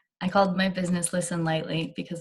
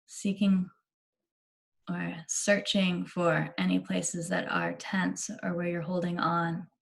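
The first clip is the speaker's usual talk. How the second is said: unhurried meditation guide with long pauses; measured, spacious meditation delivery; guided meditation. Real, not acted. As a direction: ease them gently into relaxation, leaving space between phrases.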